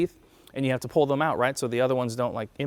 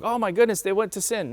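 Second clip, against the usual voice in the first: higher-pitched mock dismay; mock shock; 5 semitones higher than usual. Preacher mimics people misreading the verse, mock shock. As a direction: playfully imitate scandalised people.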